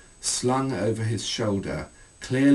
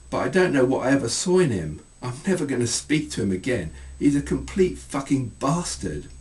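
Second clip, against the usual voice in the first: fast angry rant; 4 semitones higher than usual. Acted. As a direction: spit it out quickly, furious with him. Erin ranting about boyfriend.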